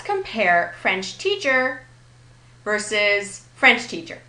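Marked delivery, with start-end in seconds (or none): 0.8-1.8 FRENCH teacher, French higher than teacher; compound-word stress on French. Shown as a demonstration. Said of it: "the stress is almost always on the first word". 3.6-4.2 French TEACHER, both words given weight; noun-phrase stress on teacher. Shown as a demonstration. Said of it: "A non-compound version would be French teacher".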